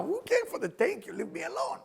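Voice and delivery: high-pitched bratty dismissal; mock impatient child. Child after cake not caring for thanks, high mock impatience. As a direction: brush it off like an impatient kid.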